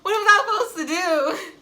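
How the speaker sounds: mock-tearful plea to her father; retold bawling. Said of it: "I was bawling".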